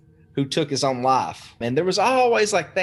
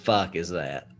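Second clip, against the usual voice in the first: low, hushed, frightened mutter; hushed and spooked, under the breath; scared hushed reaction; 8 semitones lower, 5 dB quieter than usual. Retold or imitated. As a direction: whisper it like you just woke to a noise in the dark. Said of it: "and then I do this".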